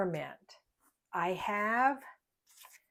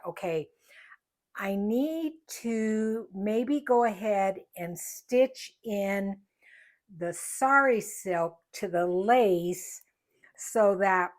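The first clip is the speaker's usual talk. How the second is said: talking around pins held in mouth; 4 dB louder than usual. Real, not acted. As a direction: speak with a pin between lips. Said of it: "got a pin in my mouth".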